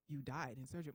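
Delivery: deep, softened pronouncement; God. Acted. Deep voice tells the patient what happened in surgery, solemn. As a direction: break the news low and quiet. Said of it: "I hear this deep voice".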